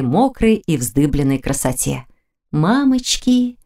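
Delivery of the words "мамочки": slow, high startled cry; испуганный возглас. A narrator's reading. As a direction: gasp it out in shock. Heroine startled by naked man. (испуганно, протяжно)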